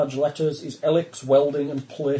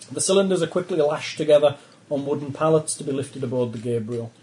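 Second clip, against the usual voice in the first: normal talking voice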